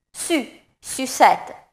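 Su then sucette said slowly, French u; slow syllable drill. Shown as a demonstration. Teacher drilling French u syllables, slow. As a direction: draw out sucette from Su.

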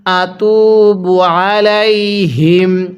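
আতুবু আলাইহিম slowly with ain pressed in the throat; slow chanted আতুবু আলাইহিম. Shown as a demonstration. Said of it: "গলার মধ্যে চাপ দিয়ে পড়লে".

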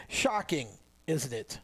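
dry sarcasm, playing it straight; deadpan mock surprise; sarcastic. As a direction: say it as if it truly shocks you. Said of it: "Note my sarcasm".

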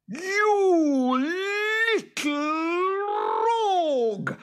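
very high, loud creature screech; boggart roar. A narrator's reading. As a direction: roar each word out in fury. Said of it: "roared the boggart".

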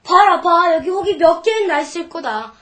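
aggrieved complaining, forceful at the start; indignant protest. Acted. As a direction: protest your case to your mother. Child protests about being hit.

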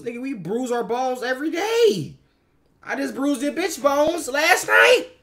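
loud joking boast. Real, not acted. Boastful joke about bruising bones.

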